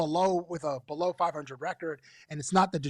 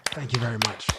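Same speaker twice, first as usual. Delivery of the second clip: mock showman thanks; 7 semitones lower, faster than usual. Repeats deep mock thanks.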